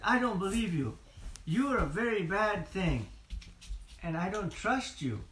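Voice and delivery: a hint of a stern Sam; suspicious Sam. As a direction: stand your ground and distrust him. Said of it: "Then Sam said".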